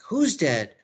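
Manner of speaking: mildly alarmed acted question; lightly voiced Juliet. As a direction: ask as Juliet, still fairly contained. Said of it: "And Juliet's like".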